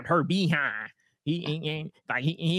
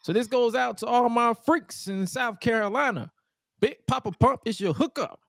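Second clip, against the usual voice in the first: wrestler promo; 7 semitones higher than usual. Retold or imitated.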